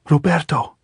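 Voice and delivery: high, loud cry of his name; shouting after him. A narrator's reading. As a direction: Maria calls back to Roberto as she's led away, high loud shout. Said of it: "Maria turned and shouted".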